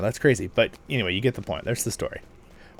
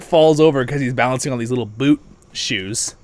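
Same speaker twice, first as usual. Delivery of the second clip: ordinary delivery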